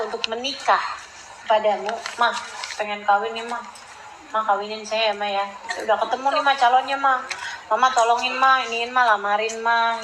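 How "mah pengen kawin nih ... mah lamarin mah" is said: lightly voiced child pleading, a bit softer; whiny child. Child begging his mother to arrange his marriage, soft pleading. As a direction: beg mama softly and repeatedly.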